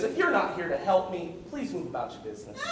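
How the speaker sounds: prim, proper translation; mock-polite. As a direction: say it like a polite dismissal. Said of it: "the translation is".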